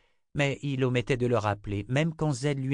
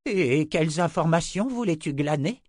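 angry questioning; 8 semitones higher, 4 dB louder than usual. Acted. Zed questioning angrily.

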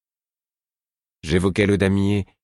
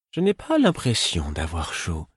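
pitiful. Acted. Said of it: "d'un ton pitoyable".

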